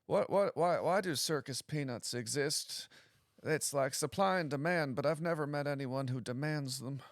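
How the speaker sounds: high, baffled, genuinely concerned; bewildered persona. Shown as a demonstration. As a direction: sound truly puzzled by it all. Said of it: "this character who's just, like, kinda bewildered by the world".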